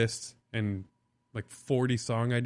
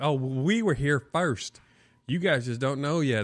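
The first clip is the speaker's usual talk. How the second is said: put-on old Sarasota local accent; 3 semitones higher than usual. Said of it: "country ass accents".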